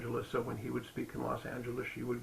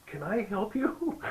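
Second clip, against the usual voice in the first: Deepak asking; 7 semitones higher, slower than usual. Retold or imitated. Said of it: "and he goes".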